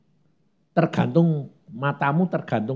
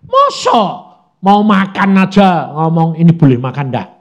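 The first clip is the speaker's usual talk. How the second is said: scoffing doubter; 8 dB louder than usual. Retold or imitated. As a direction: scoff at the idea like a sceptic. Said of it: "banyak orang bilang gini". (meniru orang yang mencibir dengan suara tinggi)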